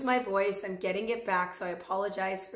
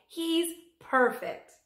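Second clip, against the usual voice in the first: higher, slow, savoring delight; 8 semitones higher, 3 dB louder, much slower than usual. A narrator's reading. President holding Fudge, slow delighted exclaim. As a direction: drag it out with pleasure. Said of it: "he cried".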